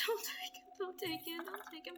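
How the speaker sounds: "Don't take him!" high, cracking up into a laugh; can't keep a straight face on the retake. Real, not acted.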